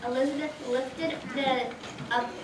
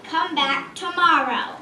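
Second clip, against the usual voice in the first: loud, slow, fed-up dragon shout; angry dragon; 5 semitones higher, 7 dB louder, slower than usual. Acted. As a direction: roar it back at her. Dragon repeats dismissal, louder.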